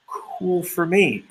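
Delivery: drawn-out high casual acceptance; slow, high mock cool. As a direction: play it slow and unbothered. Reacting to his guardian angel.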